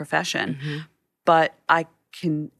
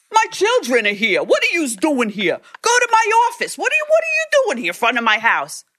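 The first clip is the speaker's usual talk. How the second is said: put-on New York mobster voice, higher and louder; 11 semitones higher, 4 dB louder than usual. Retelling an angry man outside his house, like a Goodfellas character. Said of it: "like a character out of Goodfellas".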